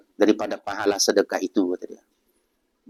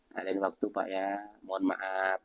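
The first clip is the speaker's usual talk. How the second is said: gentle refusal; 2 semitones lower, 12 dB quieter than usual. Shown as a demonstration. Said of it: "bahasa begitu kan udah paham orang".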